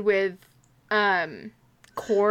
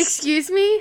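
surprised; 8 semitones higher than usual. Real, not acted. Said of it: "Hang on, I was not expecting that".

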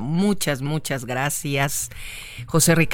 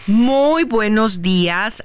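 drawn-out cheerful greeting; 6 semitones higher, 5 dB louder, much slower than usual. Acted. Reading listener message.

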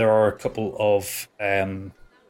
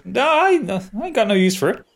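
dwarf voice; 6 semitones higher than usual. Acted. Dwarf NPC replies.

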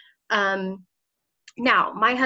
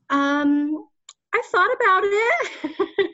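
much higher, slow, laughing reply; giggly answer; 9 semitones higher, 4 dB louder, much slower than usual. Retold or imitated. Mother tells the recruiter on the phone, giggling. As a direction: giggle through a shy admission. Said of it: "and I was like".

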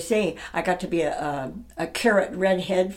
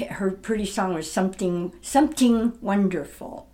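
Lady Chiang accent. Shown as a demonstration. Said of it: "No diphthongs".

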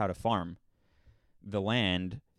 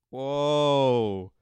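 voice cracking; 7 dB louder than usual. Real, not acted. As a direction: voice cracks on a loud, sudden "whoa". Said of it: "My voice just cracked".

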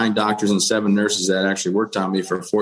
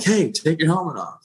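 raised, higher mock yell at the medic; retold yell; 7 semitones higher than usual. Wounded soldier to the flight medic, a higher retold yell. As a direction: call it out high over the helicopter noise. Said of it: "I'm yelling at the flight medic".

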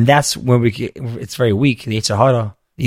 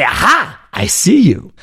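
joyous inner reply; 5 semitones higher, slower than usual. Retold or imitated. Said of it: "rather be joyous and say".

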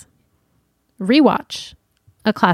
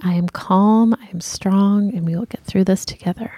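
mantra. Shown as a demonstration. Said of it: "repeating listener's mantra".

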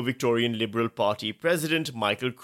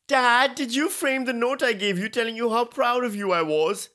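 Trump impression; 9 semitones higher than usual. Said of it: "My Trump impression is terrible".

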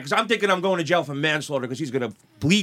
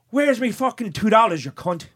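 hammed-up drunk Irish accent, raised in pitch; bad Irish accent; 5 semitones higher than usual. Drunk regular confronting the bartender over change, bad Irish accent. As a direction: demand it in a rough mock Irish accent. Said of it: "my horrible Irish accent".

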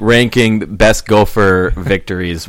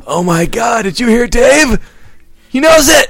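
mock amazement; 12 semitones higher, slower than usual.

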